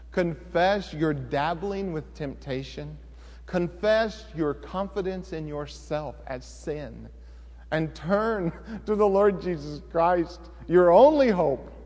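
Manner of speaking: slow, earnest altar call; preaching. Acted. Preacher urging the church to turn to Jesus, earnest. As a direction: plead with the congregation slowly.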